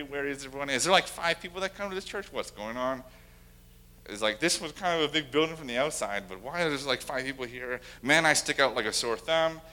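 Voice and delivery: lightly acted freak-out of a confused visitor. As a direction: imitate a newcomer starting to fret. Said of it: "they're just, like, freaking out".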